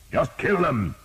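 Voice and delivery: high, loud order; shouting. A narrator's reading. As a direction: urge the footmen on. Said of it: "he shouted".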